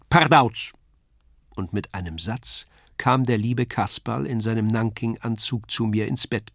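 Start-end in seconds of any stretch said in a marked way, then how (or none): 0.1-0.7 loud, higher puppet shout in the dark; loud cry. A narrator's reading. Kasperl cries out loudly in the boy's dream bedroom. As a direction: burst in with a clownish yell. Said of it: "rief es einmal ganz laut".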